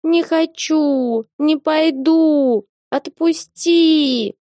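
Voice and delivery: cat whining to be let go; thin wailing. A narrator's reading. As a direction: wail it like a dragged cat. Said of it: "тоненько подвывала".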